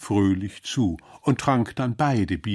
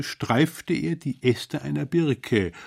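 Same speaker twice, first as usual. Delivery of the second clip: ordinary delivery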